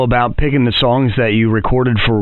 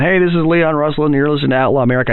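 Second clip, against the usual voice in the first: radio ID read; 4 semitones higher, faster than usual. Shown as a demonstration. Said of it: "instead of going".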